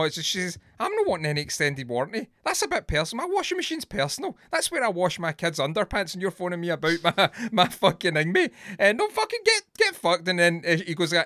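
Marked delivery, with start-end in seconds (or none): 0.8-10.3 much higher and louder, fast angry tirade; furious rant. Retold or imitated. Gemma raging at the washing machine caller, shouting. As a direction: tear the caller apart, rising to a yell.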